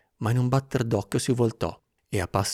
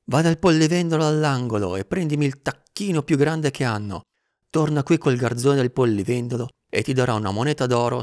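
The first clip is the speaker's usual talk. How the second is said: loud, eager errand orders; calling down instructions; 5 semitones higher, 6 dB louder than usual. A narrator's reading. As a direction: send the boy off from the window. Orders called down from the window. (ordini gridati dalla finestra)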